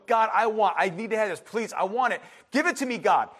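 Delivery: insistent mock plea to God; urgent, demanding prayer, acted; pleading. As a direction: beg firmly, phrase after phrase. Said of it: "you're pleading now".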